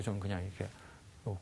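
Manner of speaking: ordinary talk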